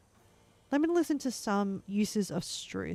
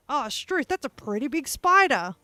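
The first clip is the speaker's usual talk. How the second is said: mock surprise; 3 semitones higher, 5 dB louder than usual. Shown as a demonstration.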